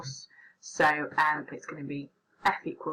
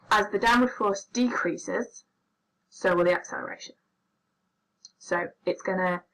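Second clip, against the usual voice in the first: stifling a sneeze; fighting off a sneeze; holding back a sneeze. Real, not acted. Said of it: "I'm trying not to sneeze".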